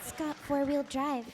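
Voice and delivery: soft, timid cartoon GPS voice; Fluttershy. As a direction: give directions shyly and hesitantly. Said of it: "I like the Fluttershy one you did".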